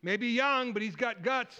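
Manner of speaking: a hint of an eager king, punching the words. King sizing up the young challenger, lightly acted and emphatic. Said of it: "So then the king says".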